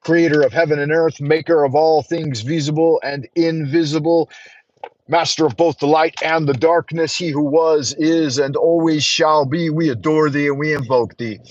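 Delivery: solemn invocation read; prayer. Acted. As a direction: pray it out with reverence. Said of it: "join me for a moment of prayer".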